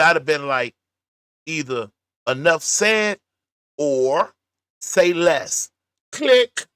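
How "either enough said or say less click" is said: loud, spaced-out mock brush-off; curt dismissal. Host showing how they'd have hung that phone up, curt. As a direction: deliver it like hanging up on someone.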